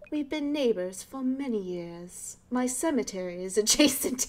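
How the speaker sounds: a hint of a proper British neighbor; posh British. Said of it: "like, a posh British voice".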